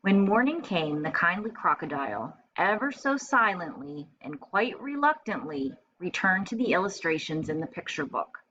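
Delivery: clear, expressive picture-book reading; storytelling read-aloud. A narrator's reading. Teacher reading a picture book to first graders, storytelling voice. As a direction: read it like story time for little kids.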